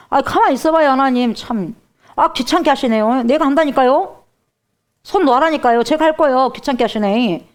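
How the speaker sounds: annoyed believer. Acted. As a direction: wave God away impatiently. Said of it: "그러면서 뭐예요".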